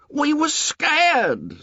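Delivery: very high, slow and insistent; high excited protest. A narrator's reading. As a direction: press the point eagerly. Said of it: "said Piggy excitedly".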